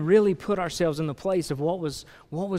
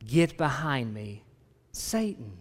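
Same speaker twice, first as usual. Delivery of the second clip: slow, measured rebuke; slow rebuke, weighing each word; Jesus rebuking; 3 semitones lower, 4 dB quieter, slower than usual. Acted. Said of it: "you remember Jesus' response".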